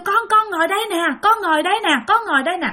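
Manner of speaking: ghost coaxing. Retold or imitated. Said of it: "nó kêu".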